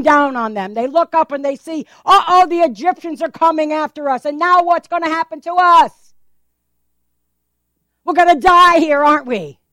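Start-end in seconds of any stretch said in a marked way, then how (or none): 2.1-9.6 frightened Israelites. Acted.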